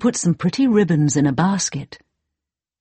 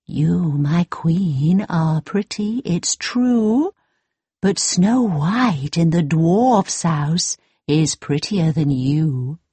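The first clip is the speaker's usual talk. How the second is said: slow, solemn magic mirror; slower than usual. Acted. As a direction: speak slowly, like an oracle. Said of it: "The mirror answered".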